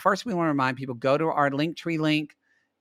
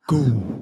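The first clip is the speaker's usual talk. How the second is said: silly sound effect; 2 semitones lower, 6 dB louder than usual. Pretend. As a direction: make a goofy gloopy sound. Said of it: "work better on that sound".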